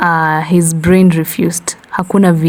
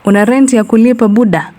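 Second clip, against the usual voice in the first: capitalism voice; 4 semitones higher, faster than usual. Acted. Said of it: "capitalism whispered".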